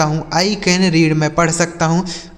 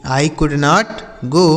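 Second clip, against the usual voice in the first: slow dictation; much slower than usual. Shown as a demonstration. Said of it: "teacher slowly repeats the sentence".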